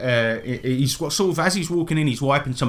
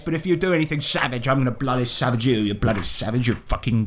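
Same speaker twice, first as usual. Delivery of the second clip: lightly voiced blustering colonial, quick warnings; grudging welcome sinking into a threat; threatening Willie Dynamite figure. Willie warning the king, mildly menacing bluster.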